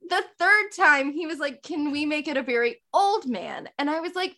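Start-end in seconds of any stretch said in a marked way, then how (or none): 1.6-3.7 imitated British accent. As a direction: suggest it as an imitated Brit. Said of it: "my British accent is crap now".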